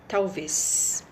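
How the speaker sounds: "talvez" ending in a drawn-out S sound; final Z as S. Shown as a demonstration. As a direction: let the Z of "talvez" hiss out as an S. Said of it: "o Z aqui tá com som de S".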